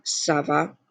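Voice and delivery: "ça va" starting with an S sound. Shown as a demonstration. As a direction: pronounce the C of "ça" as S, not K. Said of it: "instead of the C as in comment".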